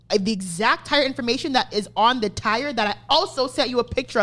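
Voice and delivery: heated, emphatic re-enacted rant; retold screaming match. Customer telling off the tire shop by phone, heated. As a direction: tear into him without fully screaming. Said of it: "get into a screaming match over the phone".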